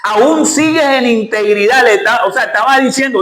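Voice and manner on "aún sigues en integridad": a lightly voiced scornful wife, slowing on "sigues"; half-mocking the wife's taunt. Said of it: "La esposa le dijo". (esposa burlona, apenas imitada)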